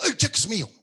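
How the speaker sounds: snatch it back and insist it's yours; grabbing claim. Retold or imitated. Snatches the cheque from the manager.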